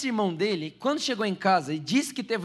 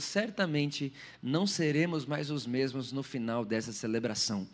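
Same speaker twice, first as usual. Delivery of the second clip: low, soft prayer voice; hushed pastor's prayer; 5 semitones lower, 4 dB quieter than usual. Acted.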